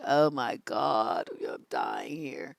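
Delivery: slow, sinking mock groan; exasperated despair. Acting out boredom with dull dates.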